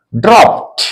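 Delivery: ड्रॉप्ड as "dropt", released T at the end; final -ed as T. Shown as a demonstration. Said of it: "नहीं बोलेंगे".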